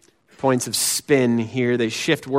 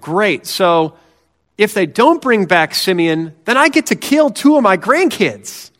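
higher, louder dry sarcasm; sarcastic Jacob; 4 semitones higher, 5 dB louder than usual. Retold or imitated. Jacob answers Reuben's offer with sarcasm. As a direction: throw the offer back with mock enthusiasm. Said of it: "He's like".

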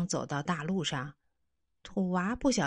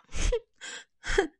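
sobbing sniffles; 3 dB louder than usual. Acted. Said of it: "他哭了起来".

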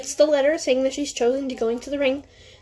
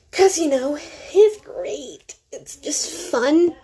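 higher-pitched mock enthusiasm, drawn out; sarcastic gushing with a pause before the punchline; 4 semitones higher, slower than usual. Real, not acted. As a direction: lay on the sarcasm with slow emphasis. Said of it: "It's called sarcasm".

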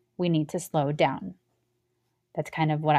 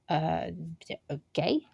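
soft, timid little uh, okay; hesitant and unsure; 6 dB quieter, slower than usual. Retold or imitated. New worker unsure in front of the boss, timid and soft. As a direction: sound lost and quietly unsure.

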